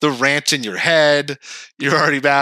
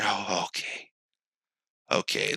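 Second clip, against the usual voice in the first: softer, meek giving in; meek agreement; 5 semitones lower, 10 dB quieter than usual. Retold or imitated. Soothed guy agreeing, soft and meek. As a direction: go small and docile.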